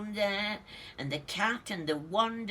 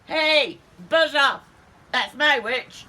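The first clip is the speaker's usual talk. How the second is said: loud, high monster shriek; shrieking monster again; 6 semitones higher, 10 dB louder than usual. Acted. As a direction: yowl it like the beast. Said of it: "its terrible voice ... was a yowl and a shriek".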